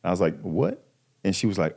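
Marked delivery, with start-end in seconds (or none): 0.4-0.8 shocked what. Retold or imitated. Retelling his shocked reaction to wife.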